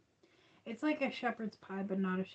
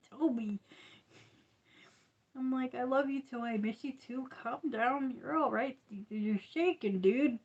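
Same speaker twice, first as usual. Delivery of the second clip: higher, coaxing pet voice to the dog; soothing an excited dog, pitched up; talking to the dog; 4 semitones higher than usual. Retold or imitated. To her shaking dog Toby, higher coaxing pet talk.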